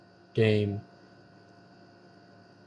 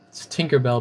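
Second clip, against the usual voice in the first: Boston accent. Shown as a demonstration. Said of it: "but with a Boston accent".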